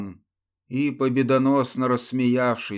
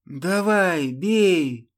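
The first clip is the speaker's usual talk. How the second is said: higher, raised challenge, a touch of rasp; defiant dare; 7 semitones higher, 4 dB louder, much slower than usual. Acted. Ludmila dares the templar to strike, voice raised. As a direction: throw the dare in his face. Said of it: "прохрипела непокорно Людмила".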